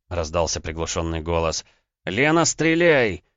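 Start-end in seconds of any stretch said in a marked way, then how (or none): 2.0-3.2 much higher, loud slow shout. Acted. Husband screaming at wife down the phone to shoot. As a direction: yell the order to fire. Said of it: "закричал я".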